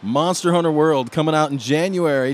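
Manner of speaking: lightly voiced announcer sign-off. Co-host plugging the game's release on request, light announcer voice. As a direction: deliver it like a show announcer. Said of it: "In the announcer voice".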